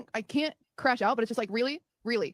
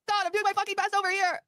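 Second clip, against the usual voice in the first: high, strained, exhausted; worn out, near tears; 10 semitones higher than usual. Real, not acted. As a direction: voice going up as she frays. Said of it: "I'm just so tired".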